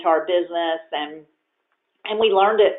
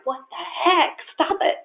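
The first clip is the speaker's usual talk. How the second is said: laughing protest; 11 semitones higher than usual. Retold or imitated. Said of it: "And I'm like".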